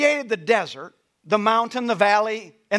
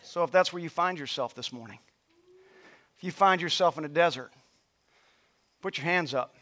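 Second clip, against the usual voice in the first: softer, hushed invitation to respond; quiet altar call; 7 semitones lower, 7 dB quieter than usual. Acted. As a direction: draw them in gently, almost under breath.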